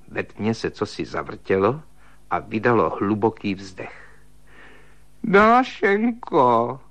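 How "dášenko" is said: high, very slow wailing call. A narrator's reading. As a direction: call out her name in a drawn high wail. Volá ji ve tmě. (vysoké protažené naříkavé volání)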